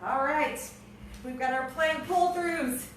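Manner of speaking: ordinary delivery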